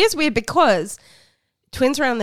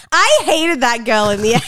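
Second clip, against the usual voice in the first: louder retold gripe; mock outburst; 2 semitones higher, 6 dB louder than usual. Fan quoting a reality star, loudly imitating. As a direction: quote her, raised voice. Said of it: "She's like".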